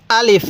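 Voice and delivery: short আলিফ, vowels not stretched; without drawing out. Shown as a demonstration. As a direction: say আলিফ briskly to its final f. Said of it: "টান দিবেন না".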